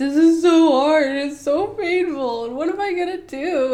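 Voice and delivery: mock very loud, high, teary whiny crying. Speaker recounts being in labor, retelling crying and whining. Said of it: "So I'm just crying and crying".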